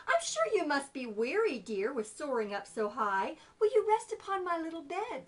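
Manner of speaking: spider voice. Acted. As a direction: coax the tired fly. Spider coaxing.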